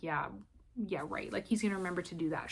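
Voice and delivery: softly doubt it, as if to yourself; sceptical. Retold or imitated. Patient privately doubting the doctor's promise, sceptical.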